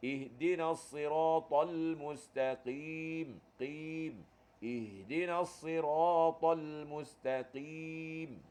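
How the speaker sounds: perlahan, qaf dalam pada "mustaqim"; bacaan tartil. Shown as a demonstration. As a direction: lagukan ayat dengan qaf tebal. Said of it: "ada satu huruf qaf".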